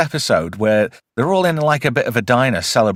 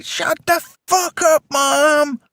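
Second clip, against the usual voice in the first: rude yell at mom; slower than usual. Retold or imitated. Son yelling at his mother, mock high yell. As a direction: snap it at mom like a bratty son. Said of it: "And he's like".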